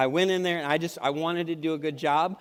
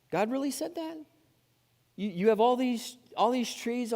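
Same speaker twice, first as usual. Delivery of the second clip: raised incredulous question; 7 semitones higher than usual. Acted. Serpent question, higher.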